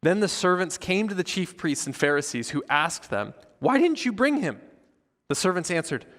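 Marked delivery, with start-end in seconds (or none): 3.6-4.6 high-pitched demand, read out in character; demanding question. A narrator's reading. Priests confronting servants who came back empty-handed, demanding. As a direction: put the question sharply, pitch jumping up.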